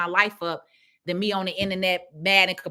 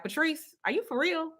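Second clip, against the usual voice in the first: lightly voiced client, higher and softer; imitating shocked client; 10 semitones higher, 6 dB quieter than usual. Client asking Patrice if she's for real, mildly mimicked. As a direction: play the stunned client asking if she's serious. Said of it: "She was like".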